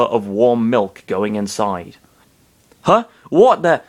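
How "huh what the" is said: high, loud puzzled exclamation; startled. A narrator's reading. Narrator voicing Falco at the empty glass, startled. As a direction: jump up in pitch, baffled. Falco finds the milk gone.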